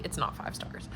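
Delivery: hushed, rueful whisper. Real, not acted. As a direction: whisper it like a confession. Rueful aside on early ratings.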